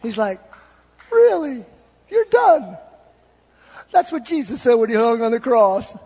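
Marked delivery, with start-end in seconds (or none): 1.1-2.8 high, teasing mock surprise; smiling disbelief. God answering a quitter with a smile, high teasing disbelief. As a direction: question it with a high, amused lift. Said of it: "he kinda smiles. He's like".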